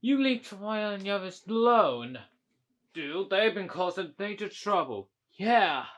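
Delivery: quarrelsome. Pretend. Acted quarrel over the others.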